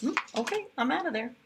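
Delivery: high-pitched shrugging horse. Acted. The horse giving up on the spider, high and shrugging. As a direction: brush it off like an offended horse.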